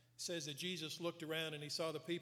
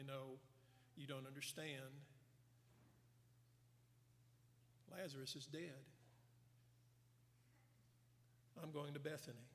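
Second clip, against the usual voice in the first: softer, measured, spaced-out statements; plainly stated; 10 dB quieter than usual. Retold or imitated. Jesus correcting the disciples who misunderstood, stated plainly and softly. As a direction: say it quietly and simply, pausing between sentences. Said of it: "Jesus said this very plainly".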